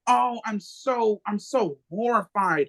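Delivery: slow, hammed-up fake sympathy; mock sorrow. Mocking politicians feigning sadness to the listeners. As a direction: drag it out like insincere grief. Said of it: "they wanna say".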